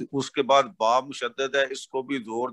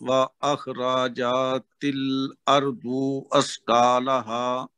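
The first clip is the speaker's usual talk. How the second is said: slow, measured recitation with long held vowels; Quran recitation; much slower than usual. Real, not acted. Student reciting verses to his tajweed teacher, careful recitation. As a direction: recite verses slowly, drawing out the long syllables.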